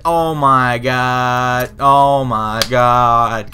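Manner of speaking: slow, drawn-out oh my god; exasperated slow groan; drawn-out exasperation. Real, not acted. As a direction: stretch it out in disbelief.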